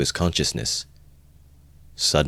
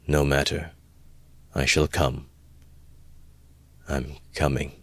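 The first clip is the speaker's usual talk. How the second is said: muttered undertone; 5 dB quieter than usual. A narrator's reading. Brother dully answering his sister, muttering in an undertone. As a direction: mutter it as though barely aware of speaking. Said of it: "muttered in an undertone".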